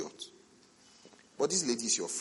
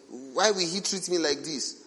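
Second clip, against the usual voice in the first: mock crying; 6 semitones higher, 4 dB louder than usual. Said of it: "And she's crying".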